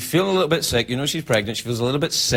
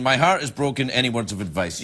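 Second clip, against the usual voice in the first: mocking whiny quote. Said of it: "you're saying".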